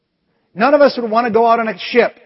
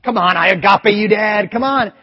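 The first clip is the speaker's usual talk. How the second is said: put-on coaxing kids; 4 semitones higher, 3 dB louder than usual. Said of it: "the kids were going".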